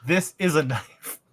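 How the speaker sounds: mock Australian movie line, slowly, ending in a laughing shout; shitty Australian accent. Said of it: "do a shitty Australian accent".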